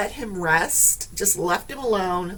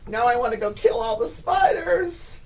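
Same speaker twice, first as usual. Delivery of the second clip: riled up; 5 semitones higher than usual. Real, not acted. Riled up after spider.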